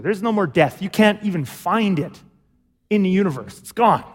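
usual speaking voice

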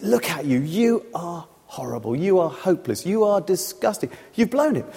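emphatic, word-by-word condemnation; accusing devil. Acted. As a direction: hammer home each insult as the accuser. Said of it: "the devil runs round to the other end".

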